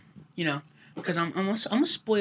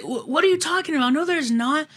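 dad doubting; 8 semitones higher than usual. Retold or imitated. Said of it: "he's like".

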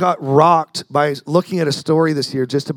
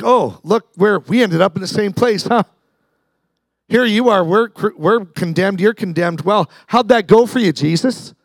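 higher-pitched jeer at a fellow prisoner; mocking; 4 semitones higher than usual. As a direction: taunt him with mock familiarity. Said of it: "Mocking him".

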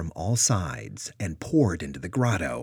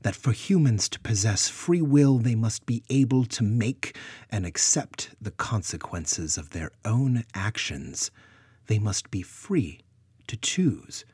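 stern, higher, deliberately paced; percussive sternness; 4 semitones higher, 3 dB louder than usual. Acted. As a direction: strike each phrase like a drum. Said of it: "with percussive sternness".

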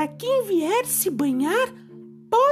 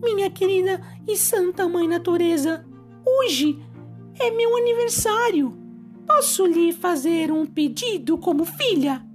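higher, sweet mermaid voice; gentle high fairy-tale girl; 4 semitones higher than usual. Acted. Mermaid speaks to Mother Nature. (voz doce de sereia)

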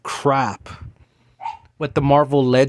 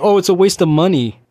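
mock complaint; 4 semitones higher, 4 dB louder than usual. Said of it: "buy it just to complain".

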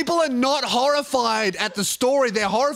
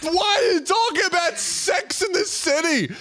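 exasperated shout; 8 semitones higher than usual. Real, not acted. Exasperated outburst at host.

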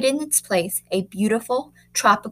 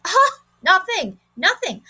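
mocking children; 10 semitones higher, 4 dB louder than usual. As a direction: drag it out like taunting kids. Children laugh along mockingly.

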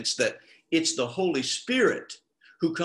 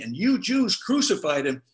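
higher, pointed retelling of a preacher; blunt accusation; 5 semitones higher, 4 dB louder than usual. Retold or imitated. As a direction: say it bluntly, pitched up. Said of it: "It's pretty blunt".

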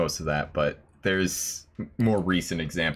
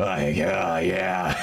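strained, growly sounds for show; put-on growl; much slower than usual. Joking to a friend about edgy voices, exaggerated growl. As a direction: push out a mock-edgy growl. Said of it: "put on a little bit of the growl".

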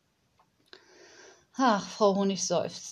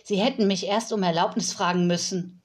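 snorting in anger; faster than usual. Acted. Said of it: "schnaubte das Mädchen".

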